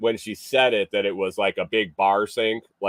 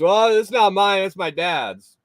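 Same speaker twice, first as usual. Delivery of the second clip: quoting the guy; 10 semitones higher, 3 dB louder than usual. Retold or imitated. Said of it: "He goes".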